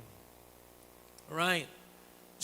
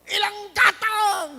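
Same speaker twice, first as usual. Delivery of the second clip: much higher, much louder slow yell; shouting back; 12 semitones higher, 9 dB louder, slower than usual. Retold or imitated. Husband shouting back at spouse, loud mock yell. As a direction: yell it right back at them. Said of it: "Sigawan mo rin".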